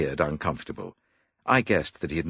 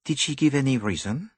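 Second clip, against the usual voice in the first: higher, fussy little detective; higher dapper detective; Poirot voice; 11 semitones higher, 3 dB louder than usual. A narrator's reading. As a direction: play the clever Belgian.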